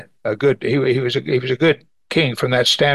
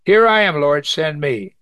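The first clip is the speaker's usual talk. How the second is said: eager answer. Acted. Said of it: "I hope I say".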